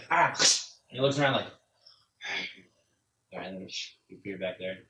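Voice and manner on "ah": short, sudden "Ah!"; quick exclaimed cry, acting out the character; brief burst of a yell; acted cry. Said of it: "you just go".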